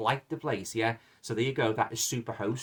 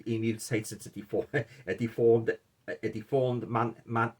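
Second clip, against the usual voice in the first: tripping over the words; stumbling, can't get it out; tongue-tied. Real, not acted. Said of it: "I can't even speak".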